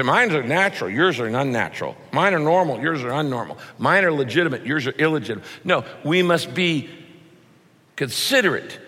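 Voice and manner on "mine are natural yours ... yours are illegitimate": smug comparison. Retold or imitated. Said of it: "And you say".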